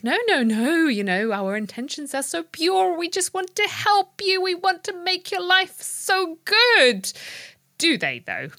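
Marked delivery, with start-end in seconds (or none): 0.0-7.1 mock reassurance. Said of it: "Inflection A I is like".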